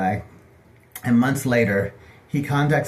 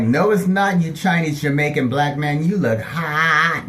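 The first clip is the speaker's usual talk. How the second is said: gushing flirt; 4 semitones higher, 3 dB louder, slower than usual. Retold or imitated. Flirting with the model.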